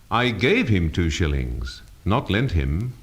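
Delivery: "gave" carries the main stress. Shown as a demonstration. Teacher showing emphasis changes meaning, stress on "gave". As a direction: hit the word "gave" to contrast it with "lent". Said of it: "different readings of a simple statement".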